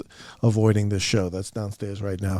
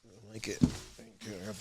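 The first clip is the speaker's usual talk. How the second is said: whisper; 16 dB quieter than usual. Real, not acted. Thanking listeners for compliment.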